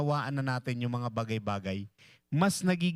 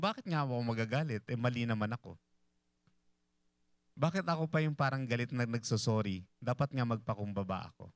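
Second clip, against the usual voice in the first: humble inner thought; 2 semitones lower, 3 dB quieter than usual. Acted.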